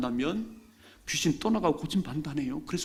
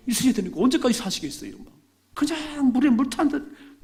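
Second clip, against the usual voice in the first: mock high voice; 11 semitones higher, 6 dB louder than usual. Preacher mocking half-heartedness.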